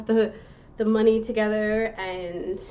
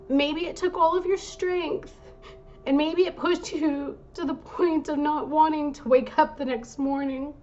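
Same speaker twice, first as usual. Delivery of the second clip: emotional; 5 semitones higher than usual. Real, not acted. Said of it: "I'm feeling a bit emotional".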